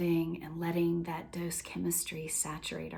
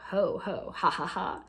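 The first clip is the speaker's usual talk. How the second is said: ho ho ha ha laugh. Shown as a demonstration. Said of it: "or you can go".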